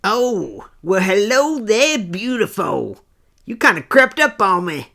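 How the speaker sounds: smooth flirty ladies' man; lightly voiced slick charmer; lothario. Toy skit, flirty figure introduces himself.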